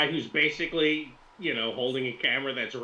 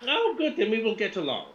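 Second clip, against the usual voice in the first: put-on high female Russian accent; high-pitched put-on Russian woman; Victoria Lapshina; 9 semitones higher than usual. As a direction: chirp agreement in a very high Russian voice. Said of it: "a female Russian accent".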